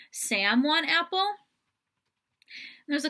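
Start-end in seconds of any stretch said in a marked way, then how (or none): 0.1-1.4 "Sam want apple?" higher, rising; using child's name. Shown as a demonstration. Parent asking toddler Sam about an apple. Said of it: "use the child's name instead".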